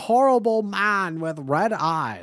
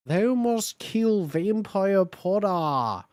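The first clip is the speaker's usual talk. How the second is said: put-on slow Australian accent; slower than usual. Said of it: "say in an Australian accent".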